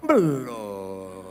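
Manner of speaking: low put-on voice answering belum; a gruff low reply; reply in Karo accent. Preacher voicing the Karo answer, low put-on voice. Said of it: "Baru dijawab".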